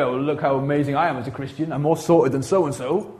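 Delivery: lightly put-on Welsh accent, mock boast. Preacher mimicking a self-satisfied Christian, light Welsh accent. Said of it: "why I did that accent".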